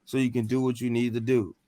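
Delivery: low, soft calming voice; calm guiding voice. Retold or imitated. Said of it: "I heard a voice tell me".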